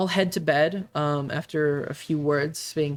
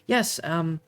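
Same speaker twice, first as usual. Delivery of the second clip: pained smile. Acted. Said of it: "pained smile on her face".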